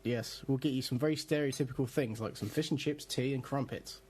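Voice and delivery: put-on posh English accent; mock upper-class posh English. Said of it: "do a very posh accent".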